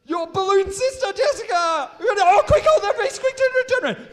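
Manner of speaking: high, loud showman's announcement; presenter unveils the balloon twin to the crowd, excited; big reveal. Real, not acted. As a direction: unveil it like a game show host.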